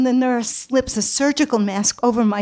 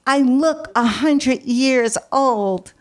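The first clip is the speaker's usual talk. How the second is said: slow lament; slower than usual. Retold or imitated. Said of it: "I say".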